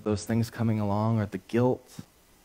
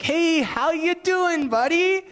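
put-on butter him up like an old pal; fake friendly; 3 dB louder than usual. King sweet-talking his soldier over dinner, high fake-friendly voice. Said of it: "He's like".

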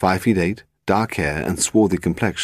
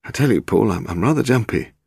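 higher-pitched, slightly nervous character voice; jumpy publisher; 4 semitones higher than usual. Acted. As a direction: confide uneasily, starting high and easing down.

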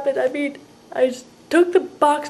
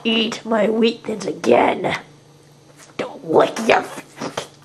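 slow stern warning; 4 semitones lower, slower than usual. Real, not acted. Scolding roommate slowly.

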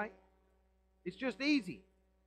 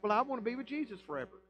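quick, lightly put-on pious voice; tossing off an easy claim; mock sinner quote; 5 semitones higher, faster than usual. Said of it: "And then you're like".

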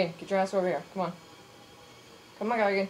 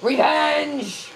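higher, louder cry of revenge; gleeful shout; 4 semitones higher, 4 dB louder than usual. Real, not acted. Player gloating as he strikes back. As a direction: crow over the hit.

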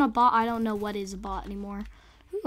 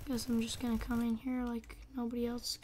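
whispering; 5 dB quieter than usual. Real, not acted. Sneaking into a room quietly.

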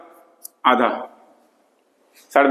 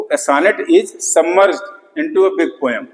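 slow dictation; much slower than usual. Shown as a demonstration. Teacher dictating a definition.

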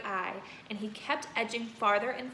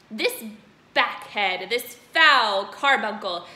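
furious headmistress; 7 dB louder than usual. Acted. Headmistress hurling insults at Bruce, loud and furious. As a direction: spit each insult at the boy.

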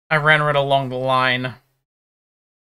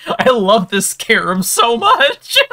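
excited; 7 semitones higher, 5 dB louder, slower than usual. Real, not acted. Gamer gushing over loot.

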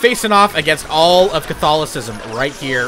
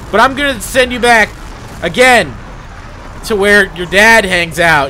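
gloating taunt; 5 dB louder than usual. Real, not acted. Gamer taunting the defeated Jesus, loud and gloating. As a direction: rub it in his face.

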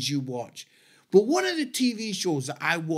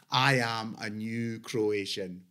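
echoing the dad; 7 semitones lower, 5 dB quieter, slower than usual. Retold or imitated.

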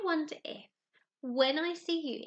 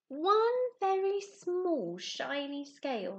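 thinking to himself; 3 semitones higher, 4 dB louder, much slower than usual. Acted. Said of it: "he thought".

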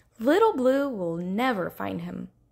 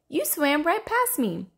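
higher, gleeful teasing; playful call; 5 semitones higher than usual. Acted. Redfin teasing Rainbow Fish, playful call. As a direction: tease with playful glee. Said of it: "shouted laughingly".

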